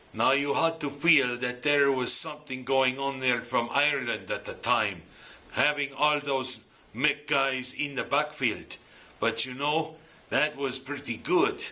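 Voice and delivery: a clumsy, lightly done Irish brogue; bad Irish brogue. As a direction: try an Irish accent and fall short. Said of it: "that's a bad Irish brogue".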